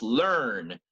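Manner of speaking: learn with a full American r. Shown as a demonstration. Teacher contrasting American and British learn, American. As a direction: keep the r in learn. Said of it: "For an American".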